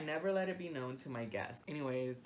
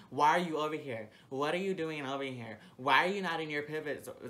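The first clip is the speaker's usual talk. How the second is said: loud, higher, exasperated questions; mock angry retort; 4 semitones higher, 7 dB louder than usual. Confronting the manager, loud and exasperated. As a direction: fire the questions back, fed up. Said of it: "and he came up and".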